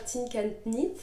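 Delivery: "Tink and Knit" in a French accent at normal pace, ending in a small rise; a corrected retry of "Tink and Knit" after stumbling on it, French accent; French-accented English. Real, not acted. Knitter fixing the brand name after a slip, laughing at her own French accent. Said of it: "mon accent anglais ne s'est pas forcément amélioré".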